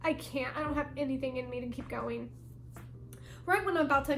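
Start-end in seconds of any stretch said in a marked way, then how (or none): 0.0-2.3 quiet retold surrender to dad; spent, giving up. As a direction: let the voice sink, utterly drained. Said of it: "I'm almost just on my knees".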